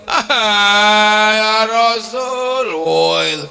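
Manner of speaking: slow, loud wailing cry. Acted. Pilgrim weeping to the Prophet, slow loud wail. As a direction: wail his name in remorse. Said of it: "orang ini nangis".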